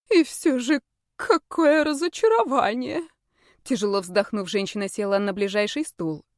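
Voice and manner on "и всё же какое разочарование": disappointed mother. A narrator's reading.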